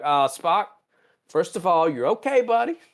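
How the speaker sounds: rising high coaxing voice; mock fussing crewmate. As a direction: fuss over him like a nervous nurse. Crew greets revived Spock.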